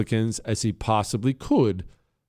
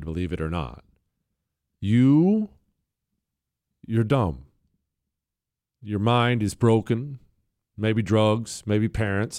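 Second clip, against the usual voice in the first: loving voice; 2 semitones lower than usual. Acted. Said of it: "that's my loving voice right there".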